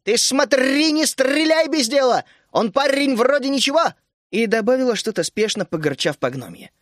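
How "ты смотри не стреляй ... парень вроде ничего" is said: high, loud call while running; shouting back. A narrator's reading. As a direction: shout over the shoulder to the guard. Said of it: "крикнуть гному с ружьём".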